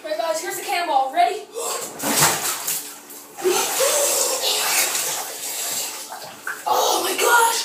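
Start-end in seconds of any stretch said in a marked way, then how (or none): 1.5-6.6 long high unvoiced gasp; gasping in icy wind. Real, not acted. Cannonball into ice water. 6.7-7.6 high, loud cry of shock; shocked shout. Real, not acted. Right after the cannonball.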